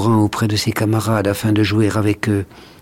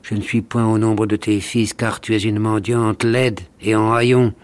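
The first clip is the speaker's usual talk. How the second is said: angry; 2 semitones higher than usual. Acted. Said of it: "avec colère".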